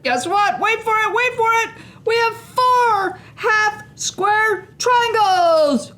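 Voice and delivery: high, thrilled build to the reveal; speeding up to reveal. Real, not acted. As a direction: tease the big reveal, bursting with glee. Big reveal of finished triangles.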